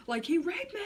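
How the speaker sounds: high, laughing half-sob; overplayed cry, mocking her younger self; dramatic wailing. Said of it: "Like, really dramatic".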